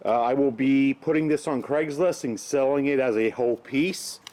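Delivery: stuffy nose from a cold; sniffling. Real, not acted. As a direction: talk through the sniffles with a cold. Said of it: "excuse my sniffling, man. I got a little bit of a cold".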